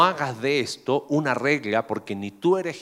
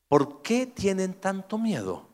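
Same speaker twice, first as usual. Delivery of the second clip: slow gentle question; 4 semitones higher, slower than usual. Retold or imitated. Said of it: "les contestó".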